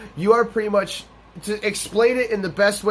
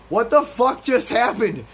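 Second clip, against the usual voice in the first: higher, drawn-out bewildered reaction; stunned disbelief; 5 semitones higher than usual. Retold or imitated. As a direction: replay your shock, stretching the words. Retells his shock at promotion.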